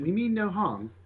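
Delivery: calling for attention. Acted. Adventurer calling peacefully to a tree creature. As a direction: raise the pitch and address the unknown creature. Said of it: "trying to bring the attention more to myself".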